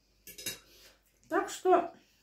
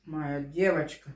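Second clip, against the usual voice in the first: tender; 6 semitones lower, slower than usual. Real, not acted. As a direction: coo gently to a pet. Tender words to her cat.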